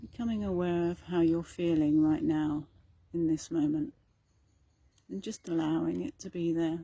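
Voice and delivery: calm, even meditation delivery with long pauses; guided meditation. Acted. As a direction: gently guide listeners inward, leaving space between phrases.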